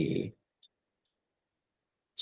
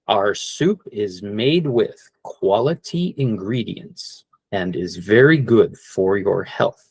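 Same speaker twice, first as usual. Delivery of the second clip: slow ad line; slower than usual. Shown as a demonstration. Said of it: "a little bit more like if you're advertising".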